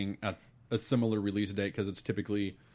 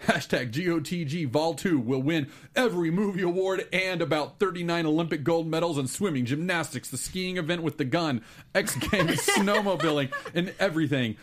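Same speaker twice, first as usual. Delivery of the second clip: hyped-up announcer, slowed punchlines; monster truck ad; 4 semitones higher, 3 dB louder than usual. Acted. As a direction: pitch it like a monster truck rally. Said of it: "announcing a monster truck rally".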